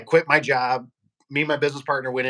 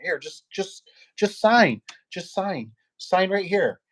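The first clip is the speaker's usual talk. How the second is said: higher, pushy mock salesman; imitating a pushy rep pressing for a signature; 6 semitones higher, much slower than usual. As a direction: push them to sign, needling.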